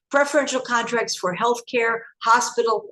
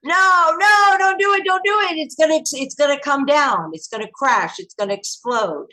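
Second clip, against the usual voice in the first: high, loud panicked pleading at the screen; yelling a warning; 7 semitones higher, 4 dB louder than usual. Retold or imitated. Warning the people heading back into the towers, high panicked shouting. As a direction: cry out to stop them going back in. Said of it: "we kept saying".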